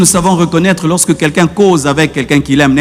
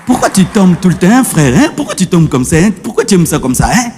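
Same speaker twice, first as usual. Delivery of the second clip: gentle pastoral talk. Shown as a demonstration. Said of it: "Je vais te dire".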